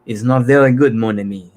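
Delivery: hammy Poirot-style French accent. Shown as a demonstration. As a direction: play it like Poirot. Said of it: "someone who's doing Hercule Poirot".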